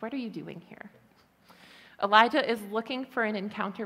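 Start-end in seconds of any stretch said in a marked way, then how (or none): 0.0-0.9 soft whisper of God. Acted. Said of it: "That's my favorite part".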